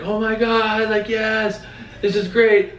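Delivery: high, thrilled squeal of a sister; high excited sister on the phone; excited gushing. Retold or imitated. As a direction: gush with delight as the sister.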